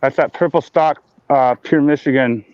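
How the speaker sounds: talking around a blunt; words around a blunt in the mouth; mouth full. Real, not acted. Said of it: "I'm talking with a blunt in my mouth".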